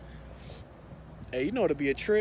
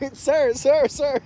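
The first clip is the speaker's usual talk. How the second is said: higher, louder repeated calls; urgent calling; 10 semitones higher, 10 dB louder, slower than usual. Acted. Pretend guy begging an attendant, high and loud. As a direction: call out urgently. Acting a bathroom scene.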